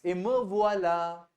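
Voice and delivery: slow, careful "Et me voilà"; model phrase. Shown as a demonstration. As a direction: say "Et me voilà" slowly, each syllable clear. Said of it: "how would you say".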